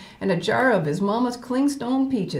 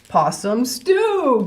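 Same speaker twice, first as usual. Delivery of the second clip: slow, drawn out menace; said quietly; 3 semitones higher, 4 dB louder, much slower than usual. Acted. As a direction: let the words hang slowly. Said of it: "Gator said quietly".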